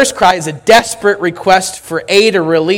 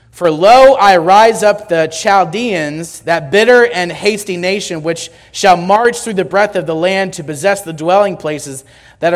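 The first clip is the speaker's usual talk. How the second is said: scripture reading. Acted. Reads verses six and seven.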